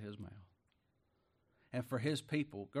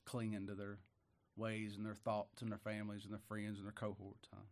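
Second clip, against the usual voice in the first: softer, lower patient murmur; patient hush; 4 semitones lower, 10 dB quieter than usual. Retold or imitated. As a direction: answer the abuse gently, barely aloud. Patient reply to family's abuse.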